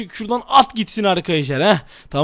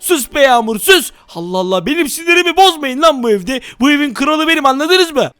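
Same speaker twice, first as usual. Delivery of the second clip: hammed-up anger; 2 semitones higher than usual. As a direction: play the angry king of the house. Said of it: "Aşırı sinirliyim". (abartılı sinirli azar)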